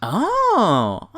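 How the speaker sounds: normal talking voice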